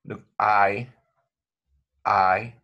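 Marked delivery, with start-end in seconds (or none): 2.0-2.5 "I" glided slowly from open to close; diphthong demo. Shown as a demonstration. Teacher modeling the diphthong, slow and clear. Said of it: "look how you have to move the tongue".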